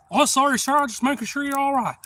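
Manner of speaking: a stranger backing off politely; apologetic stranger. Retold or imitated. Passerby apologising.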